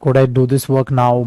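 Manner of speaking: slow, careful polite English; polite classroom model sentence; slow polite request. Shown as a demonstration. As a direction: spell out a polite request slowly. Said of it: "मतलब, मैं इस काम को अब कर लूं".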